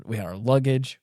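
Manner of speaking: talking through hiccups; hiccuping between words. Real, not acted. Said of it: "Excuse me, got the hiccups".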